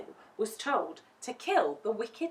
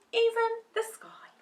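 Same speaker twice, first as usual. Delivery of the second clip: whisper. A narrator's reading. Storyteller's wondering aside.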